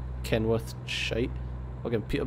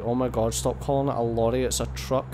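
whinging Scottish complainer, lightly put on; mildly mock an annoying Scottish whinger; retold moan in a Scottish accent. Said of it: "annoying Scottish person voice".

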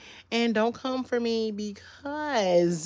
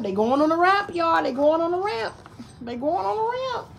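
building excitement; 7 semitones higher, 4 dB louder than usual. Acted. Reading to baby.

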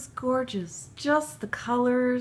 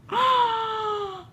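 high gasp of delight; sharp, high intake at something adorable; real delighted gasp; overcome gasp; 9 semitones higher than usual. Real, not acted. Overcome by cute baby clothes.

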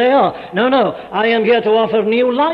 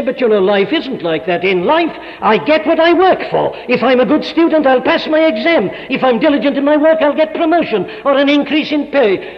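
higher, louder mock objector; imitating people; 7 semitones higher, 4 dB louder than usual. Preacher voicing people who think they earn everything, mock protest. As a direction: play the self-reliant skeptic, a bit hammed-up. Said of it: "People say".

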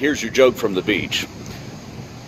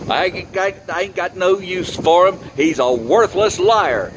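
a lightly voiced rural farmer, higher pitch; scornful farmer; 5 semitones higher than usual. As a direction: dismiss the frog like a fed-up country farmer. Farmer scoffs at the frog.

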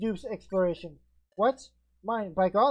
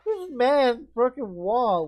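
slow, loud and higher in awe; amazed; 4 semitones higher, 5 dB louder, much slower than usual. Acted. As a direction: stretch it out in wonder. Awed reaction to broken wall.

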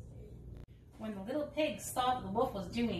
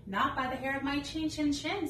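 little pigs voice; 5 semitones higher, 3 dB louder than usual. Acted. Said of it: "said the pigs".

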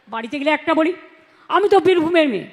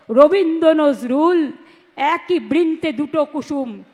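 slow, measured patriotic verse; slow rhythmic recitation; poem recital; slower than usual. Acted. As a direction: recite it like a stage poem, slowly.

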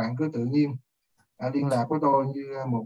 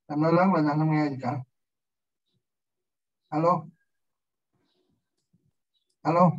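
raised voice, calling out; to someone hard of hearing; 2 semitones higher, 7 dB louder than usual. Real, not acted. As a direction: call out loudly to be heard. Teacher can't hear the student's mic.

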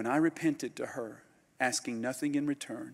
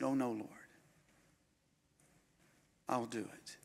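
soft, hushed surrender to God; hushed prayer; 9 dB quieter than usual. Retold or imitated. Preacher recalling his surrender to the Lord, hushed. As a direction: breathe it out as a quiet yielding prayer.

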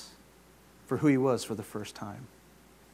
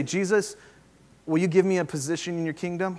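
mock presumptuous ask; 3 semitones higher than usual. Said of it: "he doesn't say".

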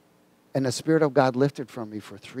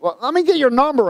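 urgent plea; 11 semitones higher, 5 dB louder than usual. Retold or imitated. Acting out his urgent request.

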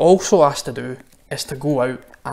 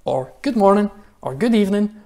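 higher, louder hello to passers-by; cheery greeting; 5 semitones higher, 3 dB louder than usual. Shown as a demonstration. Pastor modelling greetings for the children's challenge. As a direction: call out friendly greetings. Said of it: "is just to say".

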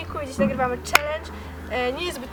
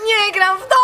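laughing protest; 3 semitones higher, 4 dB louder than usual. Real, not acted. Laughing protest after losing.

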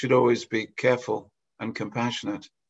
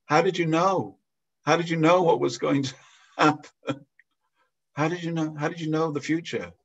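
pitched higher, marvelling how he knew; amazed question; 5 semitones higher than usual. Retold or imitated. Fallen man asks the passerby how he knew, amazed. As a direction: retell the fallen man's wonder.

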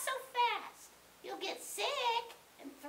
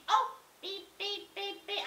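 short spoken beeps; imitated pager beeps. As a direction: mimic a beeper going off. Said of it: "Tooth Fairy's beeping me".

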